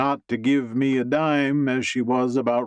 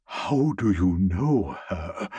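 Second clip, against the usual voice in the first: sharp raised question, rising at the end; urgent exclamation. Acted. Boss presses the waiter about the powerful guest, urgent exclamation. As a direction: blurt it out in alarm. Boss stunned, demands answer.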